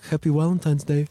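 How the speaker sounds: lightly mock stern Russian Navy guy saying "Happy Valentine's Day"; a hint of a gruff interviewer deadpanning "Happy Valentine's Day"; intense Russian guy. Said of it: "he was like".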